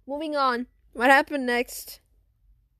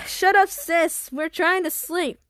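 annoyed scolding; 4 semitones higher, 3 dB louder than usual. Acted. Felix scolds sister.

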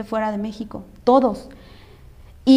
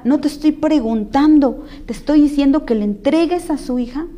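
retold stern order; 3 semitones higher than usual. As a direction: lay down the order with measured insistence. Lawyer ordering the man, retold. (orden firme y enfática, imitando a la abogada)

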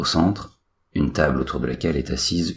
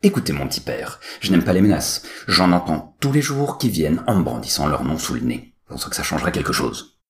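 curt and cutting; 2 semitones higher, 3 dB louder than usual. Acted. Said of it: "répond d'un ton sec et cassant".

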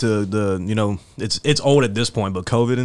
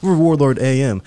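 out of breath. Real, not acted. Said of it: "I'm out of breath 'cause I ran up two flights of steps".

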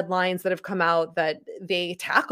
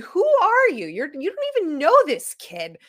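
mock anger; 9 semitones higher, 4 dB louder than usual. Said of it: "I was so mad".

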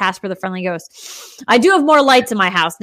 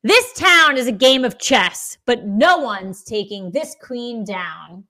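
slow dramatic tagline; slower than usual. Acted.

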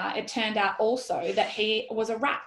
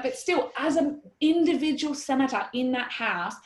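higher-pitched exasperated pleading; mad, frenetic; 4 semitones higher than usual. Retold or imitated. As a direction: argue it, heated and incredulous. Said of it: "I was, like, mad, like, frenetic".

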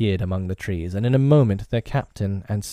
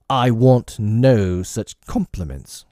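slow, loud, sulky bark; petulant bark; 5 dB louder, slower than usual. Acted. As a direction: bark it out like a spoiled captain. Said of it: "Hook barked petulantly".

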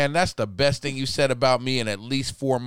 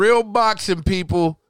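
excited; 3 semitones higher, 4 dB louder, slower than usual. Real, not acted. Hyping real boxing.

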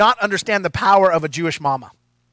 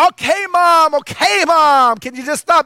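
exasperated son; 6 semitones higher, 4 dB louder than usual. Retold or imitated. Son fed up with mother.

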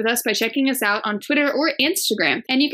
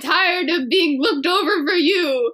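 villain speech; 6 semitones higher than usual. Pretend. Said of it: "quite the villain speech at the end".

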